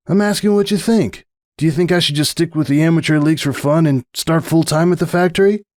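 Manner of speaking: lightly voiced young colt asking for advice; a hint of a worried young athlete; young stallion, unsure. Stallion asking his marefriend if he should quit.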